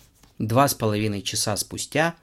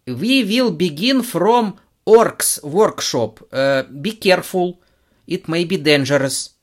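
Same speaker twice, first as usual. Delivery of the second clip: put-on American accent; 7 semitones higher, 7 dB louder, slower than usual. American guest speaks English.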